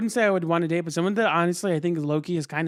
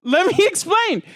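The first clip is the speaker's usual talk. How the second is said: high, loud through laughter; laughing; 11 dB louder than usual. Real, not acted. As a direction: plead while cracking up.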